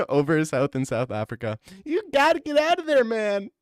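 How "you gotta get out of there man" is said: Joe Rogan impression. Joe Rogan warning South Africans, high mock yell. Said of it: "Joe Rogan to screaming a hackle from a helicopter".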